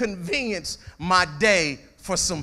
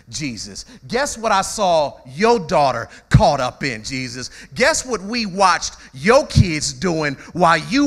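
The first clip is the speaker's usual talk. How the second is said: taunting accuser; 4 dB louder, slower than usual. Retold or imitated.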